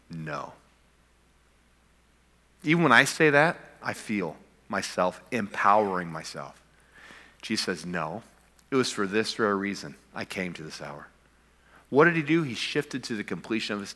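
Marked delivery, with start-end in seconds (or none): 0.1-0.5 a soft, low, resolute no; quiet firm no. Retold or imitated. Pastor voicing Jesus refusing to quit, soft and firm. 7.9-11.1 soft, low and steady; quiet resolve. Retold or imitated. Pastor voicing Jesus accepting his purpose, quiet and steady.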